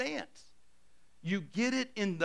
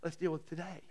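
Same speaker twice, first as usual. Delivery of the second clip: gentle, unhurried calm; reassuring voice of God; 2 semitones lower, 6 dB quieter than usual. Retold or imitated. God reassuring a fearful believer, gently. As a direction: settle the worry softly. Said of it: "And God's saying".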